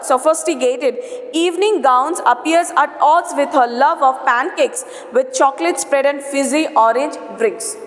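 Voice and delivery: steady textbook read-aloud; reading a passage aloud. Acted. Teacher reading the lesson text to the class in a read-aloud voice. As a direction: read the paragraph out evenly for students.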